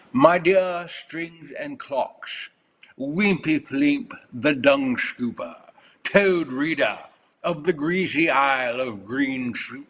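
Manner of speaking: slow, hammed-up British announcer; British accent. Reading a winning Mad Lib aloud with joke teeth, theatrical British accent. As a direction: declaim it in a mock British accent. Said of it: "with a British accent".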